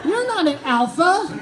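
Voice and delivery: the sane inner voice scolds Todd, mocking rant; inner critic rant. The sane brain berating him, shrill mocking rant. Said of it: "sane Todd".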